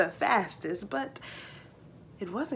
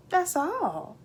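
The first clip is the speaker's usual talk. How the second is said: put-on surprised boy; 8 semitones higher than usual. Jake's voice in dialogue.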